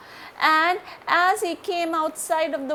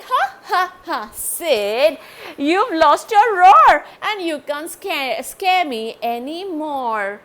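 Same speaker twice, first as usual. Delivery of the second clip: higher, louder mocking laugh and taunt; teasing friend; 4 semitones higher, 9 dB louder than usual. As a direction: tease Sid for losing his roar. Ellie teasing Sid.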